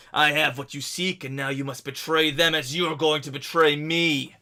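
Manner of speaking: hint of a villain calling from a height; roaring villain. Laszlo accusing from cliffs above village, roar easing off. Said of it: "you hear a roaring voice echoing down".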